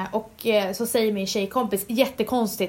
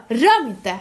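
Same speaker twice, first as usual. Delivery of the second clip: sharp, louder "Rör mig inte"; mock angry snap; 5 dB louder than usual. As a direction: cut him off coldly, half-acted. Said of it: "Jag bara".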